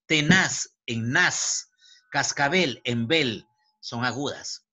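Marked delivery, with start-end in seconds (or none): 0.0-1.7 very slow "tenaz", weight on "nas"; prosodic stress. Shown as a demonstration. Teacher demonstrating prosodic accent, "tenaz" stressed on "nas". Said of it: "es el acento prosódico". 2.1-3.5 slow "cascabel", weight on "bel"; prosodic stress. Shown as a demonstration. Teacher demonstrating prosodic accent, "cascabel" stressed on "bel". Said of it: "es el acento prosódico".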